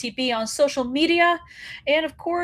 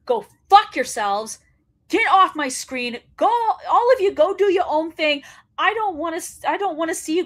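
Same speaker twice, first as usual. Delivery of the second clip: telling them off; 5 semitones higher than usual. Real, not acted. Telling the faction off.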